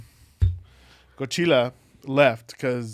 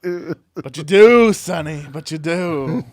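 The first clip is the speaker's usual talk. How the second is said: teasing; 3 semitones higher, 9 dB louder, slower than usual. Acted. Teasing about the lisp.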